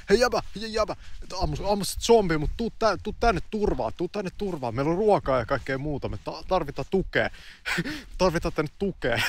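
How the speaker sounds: shouting down to the street for him to take shelter; calling out. Retold or imitated. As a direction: yell to the stranger to come inside. Calling to man from balcony.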